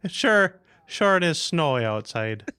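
lightly put-on Minnesotan accent; a hint of Irish-Minnesotan lilt. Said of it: "Irish Minnesotan".

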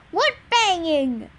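loud, slow, drawn-out yell. A narrator's reading. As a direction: holler back, stretching the words. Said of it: "Eddie yelled".

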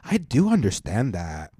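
slow, mock-earnest Karen voice; exaggerated white-girl ally; super Karen ally. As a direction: imitate a Karen in ally mode, drawn out. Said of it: "super Karen white girl, ally mode".

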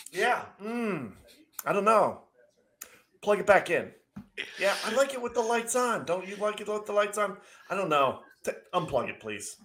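high, airy, faux-innocent dithering; mock indecisive. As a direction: play dumb, waffling sweetly over the lights. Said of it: "I just was like".

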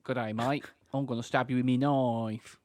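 put-on broad Aussie bushman accent; Australian accent. Friends doing Aussie bushman impressions, mock Australian accent. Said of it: "our Australian accents for us".

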